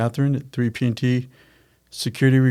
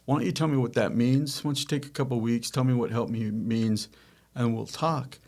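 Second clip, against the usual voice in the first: softer, a touch condescending; 5 dB quieter than usual. Retold or imitated. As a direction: brush her off lightly, softly. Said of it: "I was being a little condescending".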